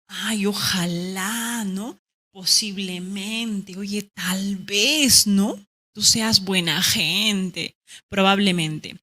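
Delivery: slow, hesitant wondering tone; doubtful musing. Shown as a demonstration. Teacher showing students how doubt sounds. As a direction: drag it out as if unsure. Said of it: "¿cómo yo expreso duda?".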